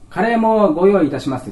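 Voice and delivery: child playing restaurant staff to the principal; child waiter. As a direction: announce like a little waiter.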